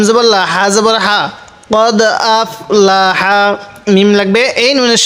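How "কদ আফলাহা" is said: Quran recitation. Shown as a demonstration. Teacher recites verse after spelling.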